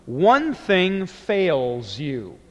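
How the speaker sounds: "One" stressed, slow and deliberate. Shown as a demonstration. Teacher giving his own translation, slow stress on "One". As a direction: land hard on "One". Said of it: "Hen is the subject".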